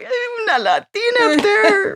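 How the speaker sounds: high slow thrilled call; imitating the audience at the screening, high and thrilled; excited cheer. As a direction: cheer like a proud fan in the seats.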